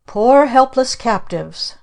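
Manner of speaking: hammed-up witch addressing captives; mock witch speech. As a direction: declaim like a stage witch. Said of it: "Our Aunt Esta made a speech".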